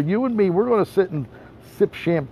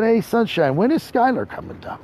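higher-pitched quote of a woman; light, raised female impersonation; imitated woman's voice; 8 semitones higher than usual. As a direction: lift the voice to mimic her asking.

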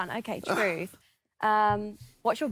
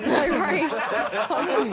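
talking through real laughter; laughing; 4 semitones higher, 4 dB louder, much slower than usual. Real, not acted. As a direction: laugh while letting it go, louder. Amused watching the push-ups go on.

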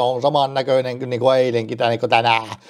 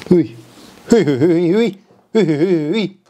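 disgusted yuck; 4 semitones higher, slower than usual. Real, not acted. Disgust at cold coffee.

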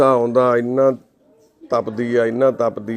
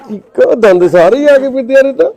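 shouting; 11 semitones higher, 8 dB louder than usual. Real, not acted. Shouting over crying child.

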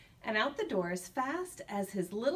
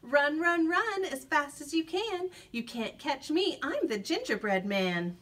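bright sing-song call, higher; 3 semitones higher than usual. Acted. Gingerbread man calls out teasing the cow while running. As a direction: call back teasingly over your shoulder. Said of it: "He called out".

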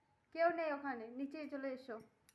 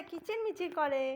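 slow demo. Shown as a demonstration. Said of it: "পাখি কি করে?".

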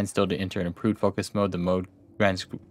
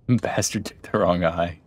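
chuckling, slowed repeat of the line; amused laughing echo. Real, not acted. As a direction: laugh through the quote, savoring it.

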